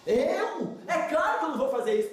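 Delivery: acted self-assured indignation, quick at the end; arrogant protest. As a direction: protest as if the idea were absurd. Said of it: "Olha a arrogância".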